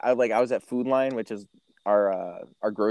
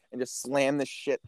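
ordinary talk, nothing marked

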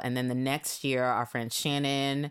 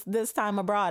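higher-pitched imitation Irish accent; 8 semitones higher than usual. Roommate explaining her time abroad, imitated Irish accent. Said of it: "she had, like, an Irish accent".

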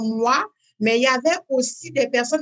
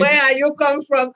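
mock the question, louder and punchier; "Where are you come from?" thrown out louder; louder curious foreigner; 3 semitones higher, 5 dB louder than usual. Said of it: "en me disant".

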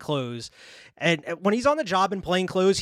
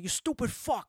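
high, indignant movie-gangster curse; mock outrage, pitched up; Scarface; 6 semitones higher, 5 dB quieter than usual. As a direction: imitate a Pacino-style outburst. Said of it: "of Scarface came out in that moment".

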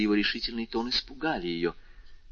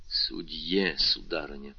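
stern; 5 semitones lower, 4 dB quieter, slower than usual. A narrator's reading. Stern husband answers as judge.

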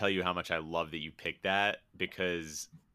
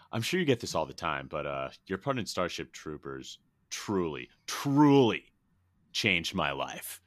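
Ron Fox gushing; 3 dB louder than usual. Retold or imitated. Ron meeting his Starship Troopers idol, mock-earnest gushing. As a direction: gush lightly, then punch the repeated "truly". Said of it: "And then Ron goes".

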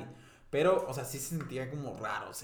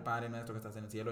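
rezo imitado; 4 semitones lower, 6 dB quieter than usual. Retold or imitated. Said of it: "solo estaba rezando".

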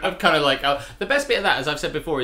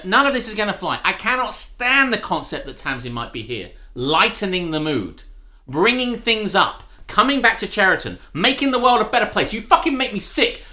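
hammed-up outrage, rising louder and higher; mock rant; 5 semitones higher, 4 dB louder than usual. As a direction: play a furious tirade for laughs. Mock tirade about absent friend.

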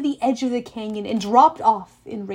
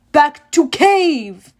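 loud barked command; shouted order; 4 semitones higher, 9 dB louder, much slower than usual. A narrator's reading. Cyclops shouting at Grover to return. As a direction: shout him back inside. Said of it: "he shouted".

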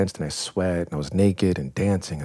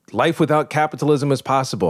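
preaching it higher, like a convert; mock evangelical; 8 semitones higher than usual. Young convert preaching Burning Man to everyone, higher evangelical fervor. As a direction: proclaim it like a zealous believer. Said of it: "this kind of Burning Man evangelical".

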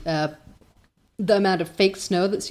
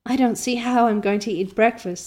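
rapturous; 3 semitones higher than usual. Acted. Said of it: "said Anne rapturously".

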